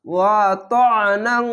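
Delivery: ওয়া ত্বআনাং ending in a long nasal "ng"; ikhfa ghunna. Shown as a demonstration. Teacher showing learners ikhfa, drawn-out nasal ending. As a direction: hold the end of ওয়া ত্বআনাং as a nasal hum. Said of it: "ইকফা গুন্না হবে".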